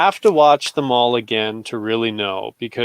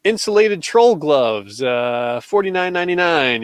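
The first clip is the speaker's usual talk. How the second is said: loud, higher goofy salesman voice; dopey cartoon bellow; 4 semitones higher, 4 dB louder, slower than usual. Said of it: "he's just like".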